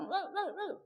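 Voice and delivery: squeaky mock call; mock hollering. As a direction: imitate someone hailing from afar. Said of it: "nggak teriak-teriak".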